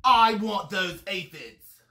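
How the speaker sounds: loud, slow demanding shout; grouchy ladybug shouting. A narrator's reading. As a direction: demand it loudly and slowly. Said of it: "shouted the grouchy ladybug".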